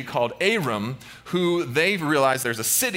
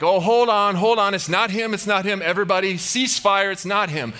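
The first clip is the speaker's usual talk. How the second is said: raised, higher acted shout; urgent call-off; 5 semitones higher, 4 dB louder than usual. Aram telling troops to cease fire, urgent high shout. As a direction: call a halt across the battlefield. Commander calling off the attack.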